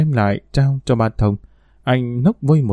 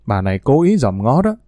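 ordinary delivery

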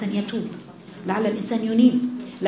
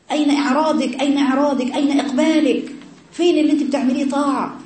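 fervent preaching; 4 semitones higher than usual. Acted. Preacher confronting her daughters, building fervent preaching. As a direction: press each question harder. Escalating questions to her audience.

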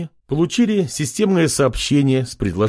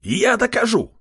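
high squeal of determination; eager shout; 11 semitones higher than usual. Acted. Pig servant cries out to prove himself. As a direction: insist with fire. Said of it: "выкрикнул".

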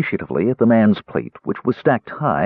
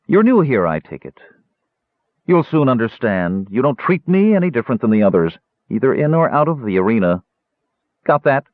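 stern gladiator woman; 3 semitones higher than usual. Acted. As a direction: lay down the rules to the newcomer. Warrior woman warns newcomer.

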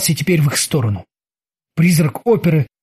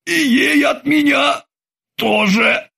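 robotic terminator shout; 9 semitones higher, slower than usual. Acted. Terminator retorts.

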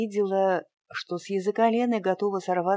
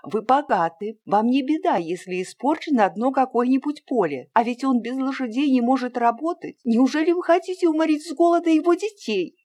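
higher and louder, building to a fast outburst; a girl's indignation spilling over; agitated, trembling; 7 semitones higher, 5 dB louder than usual. A narrator's reading. Girl Lena confronts her uncle for the peasant, rising agitated outburst. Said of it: "голосом, дрожавшим от волнения".

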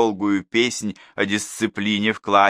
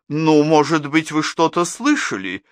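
suggesting teacher; 8 semitones higher, 4 dB louder than usual. A narrator's reading. Class teacher coaxes the parents, higher voice. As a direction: coax an answer out of them. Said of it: "предположила классная руководительница".

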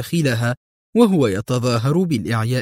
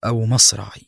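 composed, understated answer; grave but unruffled; calm. A narrator's reading. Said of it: "أجاب في هدوء".

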